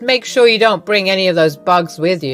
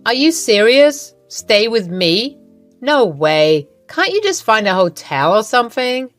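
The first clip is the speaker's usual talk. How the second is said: louder, scoffing; indignant refusal; 2 semitones higher, 4 dB louder than usual. Acted. Iva refuses Lily's request to stay, indignant and louder. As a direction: slam the idea down.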